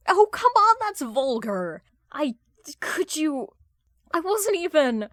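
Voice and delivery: high, loud shocked protest; flustered outburst. Acted. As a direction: sputter it out, scandalised. Hal flustered by crude remark.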